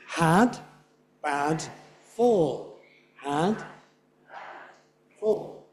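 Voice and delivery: "had", "bad", "fall" evenly spaced on beats; isolated slow beats on "had", "bad", "fall"; stressed syllables only. Shown as a demonstration. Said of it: "beginning with the red syllables".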